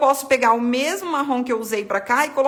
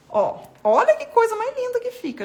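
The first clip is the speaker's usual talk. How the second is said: delighted admiration; 11 semitones higher, 4 dB louder than usual. Real, not acted. Admiring her finished painting.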